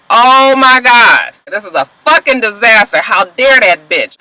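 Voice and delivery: mock-furious, drag out oh my God; mock outraged Mellie. Mellie reacts to the mistress news.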